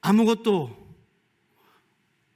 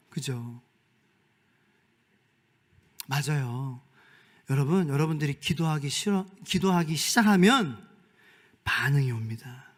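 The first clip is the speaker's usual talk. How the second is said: usual speaking voice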